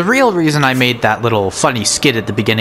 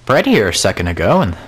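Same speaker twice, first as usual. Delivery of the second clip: growing panic; 3 semitones higher than usual. Acted. Skit: discovers food gone.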